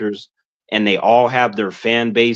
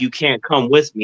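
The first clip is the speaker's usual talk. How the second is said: normal talking voice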